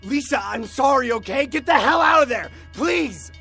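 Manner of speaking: high, loud frantic plea; panicked, screamed apology; desperate shouting. A narrator's reading. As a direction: beg at a shout to stop her in time. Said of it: "Desperately trying to stop her".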